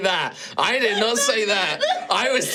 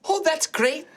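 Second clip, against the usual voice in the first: put-on Irish accent. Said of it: "Why are you Irish?".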